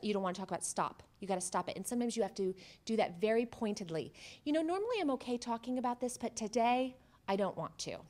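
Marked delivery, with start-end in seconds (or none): 4.4-8.0 pointed refusal. Shown as a demonstration. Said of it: "That's a stop".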